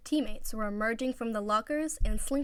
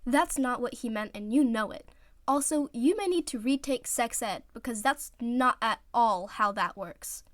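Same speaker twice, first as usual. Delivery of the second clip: disgusted retort; 2 semitones higher, 4 dB louder than usual. Acted. Iwazumi correcting his teammate, disgusted and exasperated. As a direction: shut the joke down. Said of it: "nose scrunched up in disgust".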